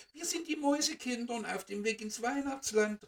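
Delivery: höher und lauter, leicht aufgeregt; Ruf im Chor. Acted. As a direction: wie Kinder, die stolz antworten. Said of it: "riefen alle". (Mäusekinder rufen dem Sternkind zu, höher)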